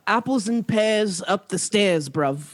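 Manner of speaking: a bit of mock Cockney, slow; lightly put-on London Cockney; hammed-up Cockney rhyming slang. Shown as a demonstration. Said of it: "that was some Cockney".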